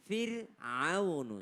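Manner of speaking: slow FIR'AUNU with a light r; drawn-out FIR'AUNU, thin r; correct thin r. Shown as a demonstration. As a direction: model FIR'AUNU slowly, r kept thin. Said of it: "maka ro-nya adalah tipis".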